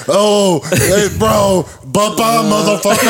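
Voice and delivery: high-pitched, gleeful mock echo; amused hyped-up onlookers. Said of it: "was the funniest shit ever".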